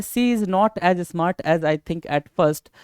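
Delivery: slow reading. Shown as a demonstration. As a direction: read the sentence very slowly, word by word. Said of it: "क्या बोल रहा है?". (धीरे-धीरे पढ़ना)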